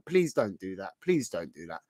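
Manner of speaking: low, soft plea, said twice; quiet mock-plead to viewers. Real, not acted. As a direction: beg them gently not to. Pleading with viewers not to overspend.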